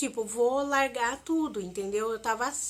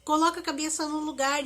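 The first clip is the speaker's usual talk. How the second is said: imitating a friend's urgent, raised pleading; friend pleading loudly; 4 semitones higher, 4 dB louder than usual. Friend on the phone calming Simone in panic, urgent loud pleading. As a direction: replay her friend begging her to stop, louder. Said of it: "Ela começou a falar comigo".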